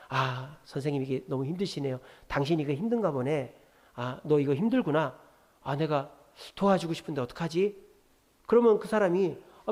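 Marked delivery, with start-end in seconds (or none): 0.1-7.8 empathizing. Shown as a demonstration. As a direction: gently share the other person's difficulty. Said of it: "그 사람에게 공감해 주세요".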